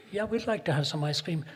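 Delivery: lightly voiced sweet waitress; a hint of a sweet hostess. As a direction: politely ask the flavor, sweetly. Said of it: "she spoke in a sweet voice".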